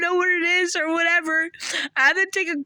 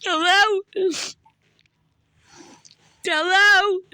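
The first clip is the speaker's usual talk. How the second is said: calling out; slower than usual. Real, not acted. Calling out on the phone.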